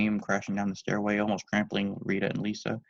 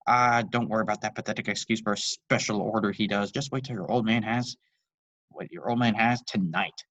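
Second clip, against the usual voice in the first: enticing dad; 3 dB louder than usual. Acted. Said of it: "the patriarch enticed".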